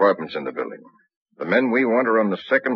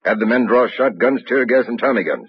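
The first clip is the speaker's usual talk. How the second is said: louder and higher commanding call; firm orders; 5 semitones higher, 5 dB louder than usual. Acted. Captain ordering weapons for the raid, loud. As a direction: hammer each item home.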